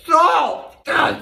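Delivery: high startled cry of salt; shocked yelp. Real, not acted. Tasting the ham dish, a shocked high yelp. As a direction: recoil at the taste with a yelp.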